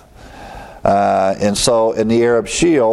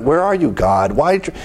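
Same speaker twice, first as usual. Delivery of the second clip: higher-pitched, pleading questions to God; acted misery; 4 semitones higher than usual. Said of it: "he's in this misery".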